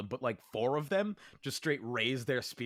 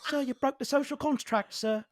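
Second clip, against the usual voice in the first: higher, laughing, shocked protest; scandalised soldier; 13 semitones higher, 5 dB louder than usual. Acted. Troops protesting to their leader, higher and laughing. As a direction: protest that the rules were broken.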